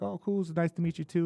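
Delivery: high mock Teddy Atlas greeting; lightly voiced casual coach; imitating Teddy. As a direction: voice Teddy high and breezy, pitched well up.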